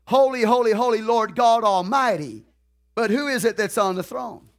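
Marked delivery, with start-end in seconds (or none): 0.1-2.5 proclaiming praise. Retold or imitated. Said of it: "They're still saying it tonight".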